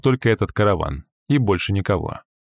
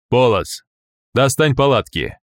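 commanding; 3 semitones higher than usual. Acted. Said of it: "приказал Тапок".

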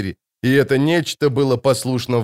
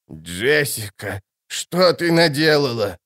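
moaning; slower than usual. A narrator's reading. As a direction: groan it out in despair. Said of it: "простонала старая правдовидица". (медленный тихий стон)

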